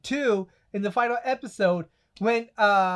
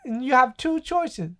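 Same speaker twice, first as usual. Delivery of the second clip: lightly voiced impression, higher pitch; slightly raised, deliberate character voice; Booty Warrior; 4 semitones higher than usual. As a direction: imitate him, drawing out the key words. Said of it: "he goes to the Booty Warrior".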